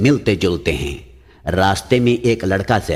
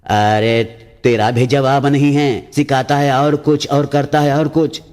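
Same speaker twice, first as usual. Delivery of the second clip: angry complaint; 5 semitones higher than usual. Acted. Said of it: "गुस्से में कहा".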